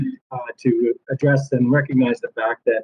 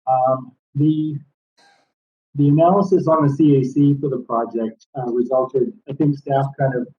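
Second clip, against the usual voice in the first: muffled. Real, not acted. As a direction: voice muffled, as through a hand over the mouth. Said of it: "very muffled".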